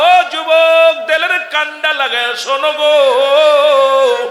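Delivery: slow, loud, drawn-out delivery.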